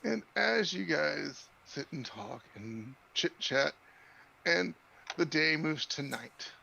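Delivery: unhurried game master narration, with long pauses; scene setting. Acted. Game master moves the players from night to breakfast, slow scene setting.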